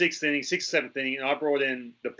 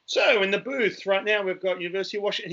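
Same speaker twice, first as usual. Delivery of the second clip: mock broadcaster; 4 semitones higher than usual. The speaker introduces the punter in the booth, mock announcer voice. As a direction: imitate a radio announcer going on air. Imitates broadcaster opening on air.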